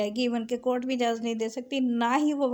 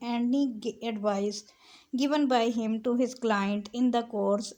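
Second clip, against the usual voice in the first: slow, deliberate dictation of legal text; measured recital of a legal clause; slow statute reading; much slower than usual. Shown as a demonstration. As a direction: read the law out word by word, very slowly. Reads statute text aloud.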